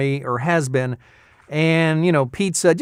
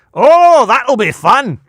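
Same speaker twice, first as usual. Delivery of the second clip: much higher and louder, cartoony Scottish dog; cartoony Scottie dog; 10 semitones higher, 9 dB louder, slower than usual. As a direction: squeal it like an excited cartoon Scottie. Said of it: "two Scotty dogs".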